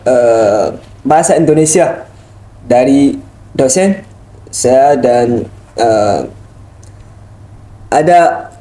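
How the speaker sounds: halting Indonesian with an Arabic accent; foreigner speaking indonesian. Real, not acted. Arab student speaking Indonesian.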